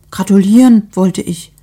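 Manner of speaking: bursting to congratulate; excited. Acted. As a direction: neighbour excitedly congratulating at the door. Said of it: "sagte Frau Grasberger aufgeregt".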